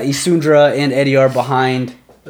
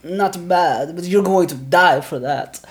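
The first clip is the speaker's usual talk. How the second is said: taunting warrior; 6 semitones higher, slower than usual. Acted. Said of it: "He goes".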